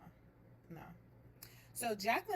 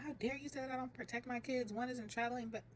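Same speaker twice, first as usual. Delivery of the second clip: retold flip-out; 4 semitones higher than usual. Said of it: "flipped out".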